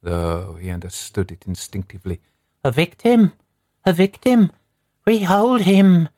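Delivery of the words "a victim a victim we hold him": high, loud savage cry; triumphant shout. A narrator's reading. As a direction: shout it aloud in triumph, pitched right up. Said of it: "shouted aloud".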